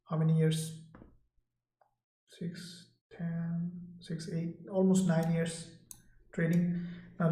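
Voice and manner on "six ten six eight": counting under his breath, unvoiced; whispered counting. Real, not acted. Trader on a livestream tallying his trading years, whispered. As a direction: whisper the sum to yourself while working it out.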